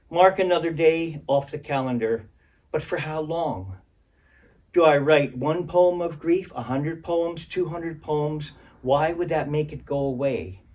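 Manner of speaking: poetry reading. Acted. Reads second grief poem.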